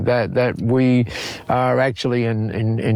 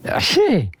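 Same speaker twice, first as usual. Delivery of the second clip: higher-pitched, mildly incredulous protest; retold disbelief; 4 semitones higher than usual. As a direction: act out being baffled and objecting. Acts out his protest to Masami.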